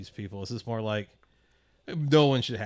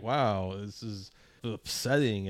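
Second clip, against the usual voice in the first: snooty liberal; slower than usual. Retold or imitated. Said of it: "snooty lefty liberal being like".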